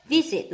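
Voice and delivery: "Visit" stressed on its first syllable. Shown as a demonstration. Teacher marking word stress for students, first-syllable stress on "Visit". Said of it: "lại nhấn âm một".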